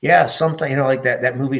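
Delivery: excited realization. Retold or imitated. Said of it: "I'm like".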